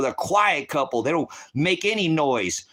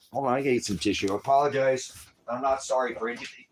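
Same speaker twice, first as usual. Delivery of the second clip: tearful; 3 semitones lower, 5 dB quieter, faster than usual. Real, not acted. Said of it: "Yeah, I'm emotional".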